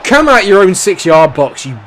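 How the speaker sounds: loud, high shout at the screen; angry shout. Real, not acted. Gamer yelling at his defender on screen, angry shout. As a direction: yell at the player in frustration.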